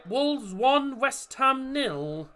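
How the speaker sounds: high, punchy results update; score flash. Real, not acted. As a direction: announce the score with a drawn-out last word.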